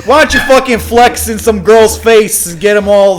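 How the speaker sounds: put-on Boston-accented heckling; hammed-up Boston trash talk; mock Boston accent. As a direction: taunt him in exaggerated Boston. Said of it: "So that's Boston".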